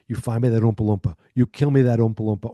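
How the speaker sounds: hammed-up command to find the runaway; Willy Wonka. Wonka ordering the kids to hunt an Oompa Loompa, mock-loud command. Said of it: "It's like Willy Wonka".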